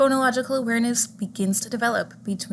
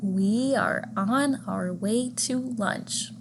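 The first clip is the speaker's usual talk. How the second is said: slow, evenly spaced teacher's sentence; slowly, word by word; much slower than usual. Shown as a demonstration. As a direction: give each word its own beat, unhurried. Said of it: "slowly says a sentence".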